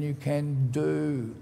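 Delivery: "do" drawn out slowly; stress on DO. Shown as a demonstration. Preacher going through the verse word by word, stressing "do". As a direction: stretch the word "do". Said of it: "each time emphasising a different word".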